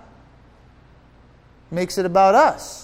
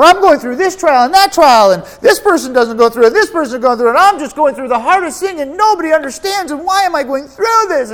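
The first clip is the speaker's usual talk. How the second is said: higher whiny self-pitying voice; mock complainer; 6 semitones higher than usual. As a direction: whine about your trials for the congregation. Parodying a complaining Christian.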